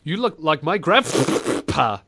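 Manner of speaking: slow line with "grandpa" split by a spat P; mocking mispronunciation. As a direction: pause and spit the P in "grandpa". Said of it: "Adding that extra syllable".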